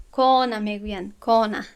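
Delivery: کان with a heavy Persian-style alif; imitating the common mistake. Teacher imitating Persian speakers' heavy کان. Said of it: "خطای کسانی که فارس زبان هستند".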